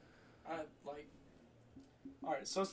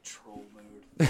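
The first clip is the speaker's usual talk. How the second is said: laughing mock announcement; 6 semitones lower, 11 dB louder than usual. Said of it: "I'm like".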